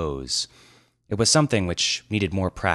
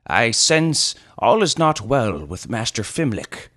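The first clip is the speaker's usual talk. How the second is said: observing elder; 5 semitones higher, 5 dB louder than usual. Acted. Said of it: "observed Eldrador".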